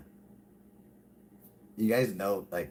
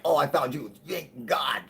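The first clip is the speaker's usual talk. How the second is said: relieved viewer; 7 semitones higher, 4 dB louder than usual. Retold or imitated. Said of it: "And he was like".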